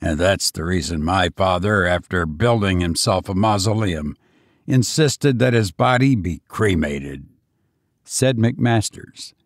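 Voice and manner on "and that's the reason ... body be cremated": lightly voiced banker, starting low; understated, steady master of the house; grave banker. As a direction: explain it soberly in a lower register.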